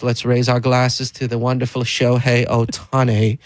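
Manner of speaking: mock upper-class toast; posh voice. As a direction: raise a glass like a toff. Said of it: "your posh voice".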